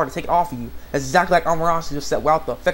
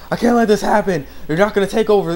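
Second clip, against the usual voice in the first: louder, higher mock-heroic vow; acted defiance; 5 semitones higher, 5 dB louder than usual. Yukio refusing Satan's takeover, mock defiant. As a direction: declare it forcefully as an imitation.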